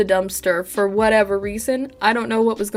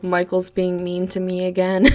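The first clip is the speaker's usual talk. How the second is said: put-on low deadpan child's complaint; stone cold; 4 semitones lower than usual. Toddler reporting imaginary friend's meanness, stone cold. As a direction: say it with no emotion, pitch dropped. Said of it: "was stone cold and was like".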